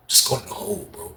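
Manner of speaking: soft unvoiced whisper. Narrator secretly urging cellmate, hushed whisper. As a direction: whisper it so nobody hears. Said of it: "I whispered it to him".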